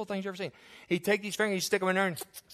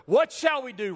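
pleading crowd; 10 semitones higher, 7 dB louder than usual. Retold or imitated. Crowd's question voiced in the sermon.

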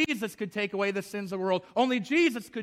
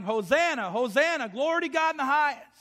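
rising, higher-pitched mock shout of praise; acted shouting; 5 semitones higher than usual. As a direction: build like a crowd hailing its king. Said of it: "they're shouting".

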